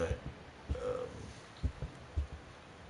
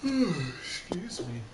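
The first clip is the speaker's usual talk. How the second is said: whispering; 8 semitones higher, 3 dB louder, much slower than usual. Real, not acted. After loud laugh.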